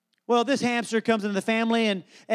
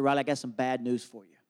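gentle bad news; 8 semitones lower, 6 dB quieter than usual. Dad gently breaks bad news.

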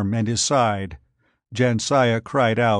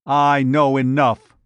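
louder, sharp comeback; retort; 6 dB louder than usual. Acted. Giant brushing off the girl's doubt, loud retort. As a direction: snap it back, louder. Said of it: "Thordred retorted".

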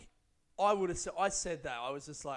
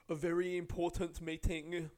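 mocking self-importance; 3 semitones higher, 3 dB louder than usual. Comic sneers at the passenger's meeting, mock self-importance. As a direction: puff up "important meeting" with scorn.

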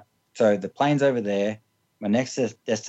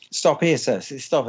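badly faked English accent, slightly raised; attempted English accent; 4 semitones higher, slower than usual. Baggage handler ordering a runaway passenger to stop, bad English accent. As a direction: have a go at an English official's accent. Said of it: "I can't do an English, English accent".

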